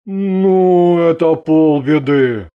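easy relieved male voice. A narrator's reading. Husband hears there are no crocodiles, relieved. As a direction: let it out with relief. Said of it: "облегчённо вздохнул Андрей".

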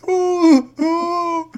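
breathless laugh "ooh". Real, not acted. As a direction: come down off a laugh. Winding down from laughter.

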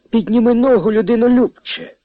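high, loud sudden warning; urgent cry. A narrator's reading. Priest stops Selyvon stepping, high loud urgent cry. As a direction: stop him mid-step with alarm.

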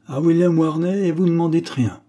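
high, loud astonished echo of the name; shocked and reproachful; startled disbelief. A narrator's reading. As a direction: repeat the name as if it stunned you.

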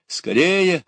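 high, loud hurry-up call; urgent cry. A narrator's reading. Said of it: "крикнула девушка". (торопящий высокий выкрик)

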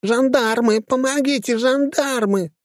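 very high, shrill cry for help; piercing shriek. A narrator's reading. Lady screaming for gendarmes after the fall, piercing. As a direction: yell for the police. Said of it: "пронзительно завершала".

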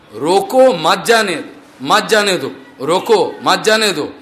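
a light stammer, repeating "মাত জানে"; mild mock stammer in Hindi; stammering master. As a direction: stumble over "রোকো মাত জানে" like a stutterer. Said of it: "সে তোতলা".

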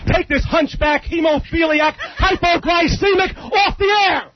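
shouting. Real, not acted. Angry caller shouting insults.

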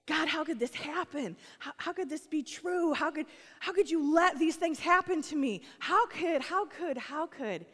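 high, pleading, whiny lament; mock a hurt complainer pleading with God; grumbling complaint. A grumbler protesting to God, high and whiny. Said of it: "sounded like grumbling".

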